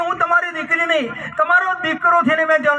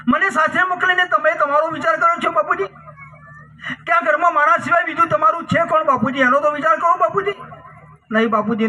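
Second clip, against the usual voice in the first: higher, pleading protest; upset protest; 3 semitones higher than usual. Acted. Daughter begs father not to send her to her in-laws, pleading. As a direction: push back, pitch raised in distress.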